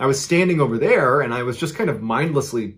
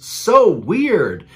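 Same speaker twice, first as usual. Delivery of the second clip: higher, louder blurted reaction; 6 semitones higher, 5 dB louder than usual. Retold or imitated. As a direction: let it slip out loud, pitched up. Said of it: "Jen kind of blurted out".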